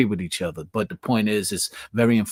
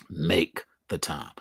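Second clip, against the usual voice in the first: slow, lower, whispered "Make the time"; emphatic whisper; 7 semitones lower, 5 dB quieter, slower than usual. Shown as a demonstration. Stressing the point to viewers, slow whisper. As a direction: breathe it as a solemn reminder. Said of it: "I emphasize".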